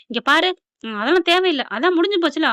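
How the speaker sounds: hammed-up scornful rebuke; mock rebuke. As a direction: wave her off, mother-in-law style. Mother-in-law rebukes.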